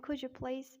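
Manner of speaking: American "could you please" run together; American-accent demo phrase. Shown as a demonstration. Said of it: "in American".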